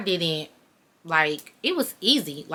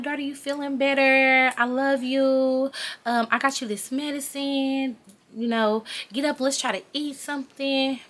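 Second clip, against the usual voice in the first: higher sing-song doting mom; overly sweet, caring; 5 semitones higher than usual. Retold or imitated. Mom coming in to check on her sick daughter, sugary sweet. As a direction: imitate a mother being extra loving. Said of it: "she was just being too nice".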